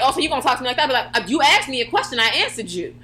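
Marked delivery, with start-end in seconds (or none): 0.0-0.8 imitated mom. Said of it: "my mom would be like". 1.2-2.9 imitated sassy retort, pitched up; rude kid backtalk. Kid talking back to mom, mock-rude retort. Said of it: "That's literally how I would say it".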